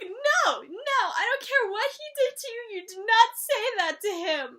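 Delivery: loud, high protective scolding; indignant outburst. Retold or imitated. Fan scolding Billy on Cass's behalf, loud and indignant. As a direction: defend Cass fiercely.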